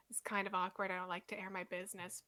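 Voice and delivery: embarrassed whisper. Acted. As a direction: confide it under your breath. Confiding something awkward.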